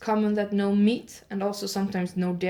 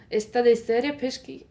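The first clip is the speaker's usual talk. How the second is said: Spanish-tinged Italian; 3 semitones higher, 4 dB louder than usual. Shown as a demonstration. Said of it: "more Spanish again".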